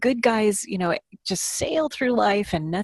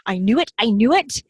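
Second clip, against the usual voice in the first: mock triumphant; 3 semitones higher, 4 dB louder than usual. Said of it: "comments she makes".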